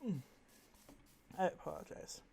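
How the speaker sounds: words through a yawn. Real, not acted. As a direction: yawn while talking. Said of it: "I don't know why I'm yawning".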